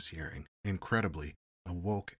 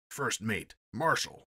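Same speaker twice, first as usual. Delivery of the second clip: a touch of anger, a bit higher and louder; angrily; 4 semitones higher, 6 dB louder, slower than usual. Acted. Captain answering the investigator's question, mildly angry. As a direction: snap out the name, irritated. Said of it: "said the captain angrily".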